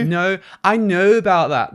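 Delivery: lightly put-on Northern Irish accent; a hint of Belfast vowels on No. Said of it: "Irish drag queen would say it like".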